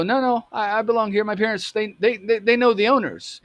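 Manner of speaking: retold nervous protest, pitched high. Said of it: "he could tell I was nervous".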